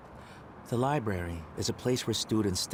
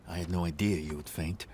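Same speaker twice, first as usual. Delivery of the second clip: laughing; 3 semitones lower than usual. Acted. Laughing tease.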